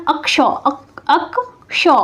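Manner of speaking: अक्षो spoken slowly, broken off at अक- and then said whole; sounding out akshō. Shown as a demonstration. Teacher sounding out अक्षो for students, carefully split. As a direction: say अक्षो, stop at अक-, then say अक्षो complete. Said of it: "उच्चारण करके भी आप कर सकते हैं".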